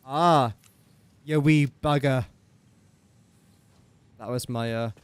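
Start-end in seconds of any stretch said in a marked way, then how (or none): 0.1-2.2 lightly attempted Scottish accent; a rough, generic Scottish accent. Shown as a demonstration. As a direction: have a half-hearted go at Scottish. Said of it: "Scottish accents".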